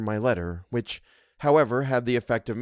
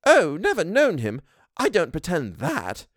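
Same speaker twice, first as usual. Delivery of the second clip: higher, slower housekeeper; an honest servant admitting; Missus Gross voice; 5 semitones higher than usual. A narrator's reading. Housekeeper answers the governess, candid.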